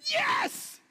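sudden high shout of joy; cheering parent. Pretend. Parent cheering as their baby takes a first step, joyous shout.

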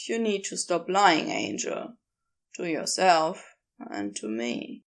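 lightly voiced low character, frank and fond; understated low voice, candid but kind; Crowley, gently admonishing.

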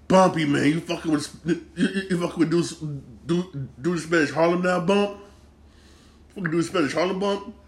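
mock-incredulous questioning of a reckless pal; incredulous challenge. Fan questioning TV gangster Bumpy about Spanish Harlem, incredulous.

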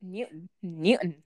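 Newton with a glottal stop for the t; American-style Newton. Shown as a demonstration. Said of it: "That's how I say it".

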